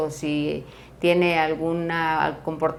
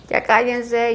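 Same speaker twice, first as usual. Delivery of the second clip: retold shout, higher and louder; mock yell; 6 semitones higher, 5 dB louder, slower than usual. Siblings shouting at each other at home, mock yell. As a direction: imitate siblings yelling to hush. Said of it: "empiezan a gritar".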